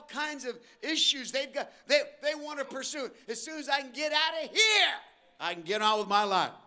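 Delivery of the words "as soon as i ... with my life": half-shouted eager escape; mock impatient kid. Preacher imitating kids wanting out, loud. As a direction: blurt it like a kid itching to leave.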